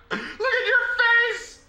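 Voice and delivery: slow high taunt through laughter; laughing taunt. Pretend. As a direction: tease him, laughing, way up high. Mocking the character's reaction.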